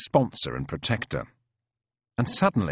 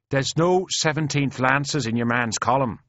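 slightly raised, argumentative brogue; doubting Irish soldier; 5 semitones higher than usual. Acted. Mick disputing the stranger's story, doubtful. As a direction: object in an Irish voice.

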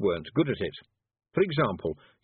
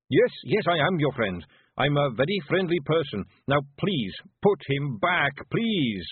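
high, loud desperate begging; frantic pleading; 5 semitones higher, 4 dB louder than usual. Acted. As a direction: plead for the boy, fast and scared. Zack Zack begging.

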